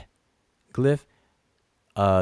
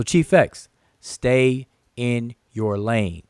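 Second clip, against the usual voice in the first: slow each word down like a final warning to a rival; pointed call-out; much slower than usual. Real, not acted. Calling out Chief X directly.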